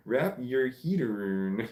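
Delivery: slow, Scottish "heed aroon"; attempted Scottish accent. Shown as a demonstration. Amused last try at a chatter's phrase, slow Scottish accent. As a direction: sound out HEAT AROUND slowly as Scottish "heed aroon". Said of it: "This is a hard accent".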